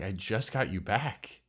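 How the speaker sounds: slow, understated imitation of a hurt man; gently mimicked heartbreak; imitating hurt voice. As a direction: quote him slowly, with a touch of hurt. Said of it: "Do you hear it in his voice".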